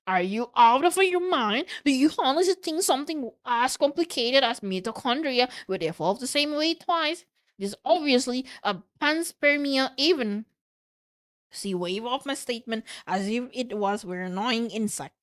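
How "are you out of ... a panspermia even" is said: higher, incredulous argument; exasperated retort. Acted. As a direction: challenge a rival's sanity. Acted scientific quarrel, incredulous retort.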